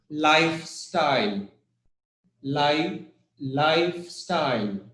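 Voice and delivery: "lifestyle" with the beat on life, style falling; stress on LIFE. Shown as a demonstration. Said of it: "It's L I F".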